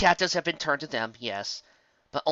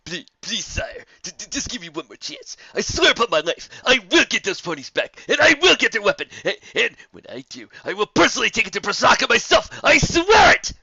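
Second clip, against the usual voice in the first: building from stammering plea to loud, high shouting; terrified servant begging his master; desperate pleading; 9 semitones higher, 11 dB louder than usual. A narrator's reading. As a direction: beg for one more chance, rising to a frantic vow. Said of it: "all in one breath".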